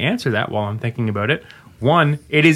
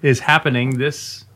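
hyped announcement; 5 semitones higher than usual. Acted. Hyping the event.

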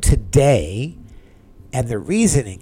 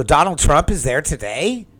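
surprised echo; 5 semitones higher, 4 dB louder than usual. Retold or imitated. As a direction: repeat it back higher and louder, amazed. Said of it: "I go".

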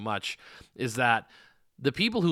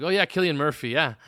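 put-on higher, louder clumsy Irish accent; bad Irish accent; 4 semitones higher, 5 dB louder than usual. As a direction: ham up an Irish bartender's accent. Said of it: "my very bad Irish accent".

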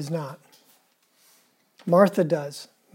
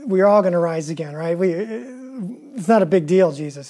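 lip service. Retold or imitated. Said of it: "gives him some lip service".

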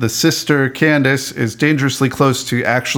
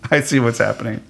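said through a soft laugh; 3 dB quieter, faster than usual. Real, not acted. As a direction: chuckle the words out. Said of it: "I'm laughing also".

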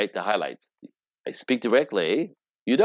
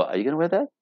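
hinting wife; 7 semitones higher, much faster than usual. Retold or imitated. Wife hints at disliking shirt.

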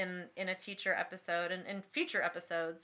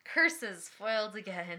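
foiled villain; 4 dB louder, slower than usual. Pretend. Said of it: "mock villain exclamation".

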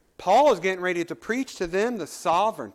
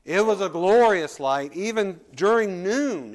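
louder, slowed preaching on the glory of the light; full-force preaching; 3 semitones higher, 5 dB louder than usual. Acted. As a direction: preach it out, leaning on every word. Preacher building to emphasis.

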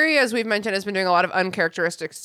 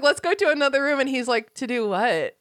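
giggly mock dialogue, a little higher; laughing retelling; 4 semitones higher than usual. Giggling as she voices Lavender and a clueless Ron. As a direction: laugh your way through the quoted lines. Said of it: "she's like".

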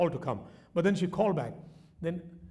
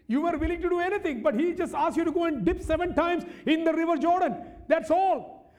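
urgent preaching; 11 semitones higher, 4 dB louder than usual. Real, not acted. Preaches the servants' plea.

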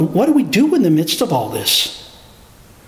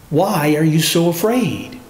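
gentle question; 2 semitones lower than usual. Acted. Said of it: "what Jesus asked his disciples".

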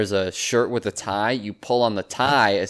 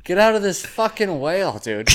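put-on rowdy Boston dude accent, pitched up; 6 semitones higher than usual. Boston dude daring Houdini into the whale, Boston accent. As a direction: bark it like a Boston local egging him on, Boston accent. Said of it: "That's a really good Boston accent".

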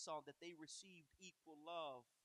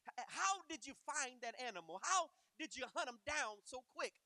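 louder, higher questioning; suspicious old father; 6 semitones higher, 10 dB louder than usual. Acted. Blind Isaac quizzing his son, loud and high. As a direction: press him with eager suspicion.

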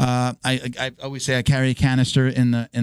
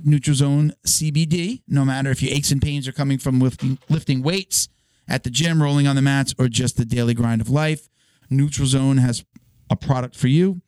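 ad read. Acted. Sponsor ad read.

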